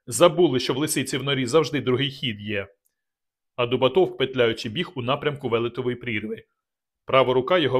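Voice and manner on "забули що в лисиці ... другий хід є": gritted-teeth snarl. Acted. Rygor reacting to the escape, snarling through teeth. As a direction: spit it through clenched teeth. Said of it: "проскрипів зубами Ригор".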